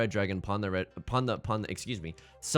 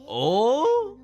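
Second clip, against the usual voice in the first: put-on high cute anime girl; 12 semitones higher, 7 dB louder than usual. Surprised squeak at the play.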